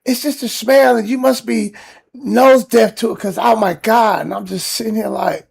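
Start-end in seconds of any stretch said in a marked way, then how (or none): 0.0-4.2 retorting. Retold or imitated. Arguing back with the neighbor.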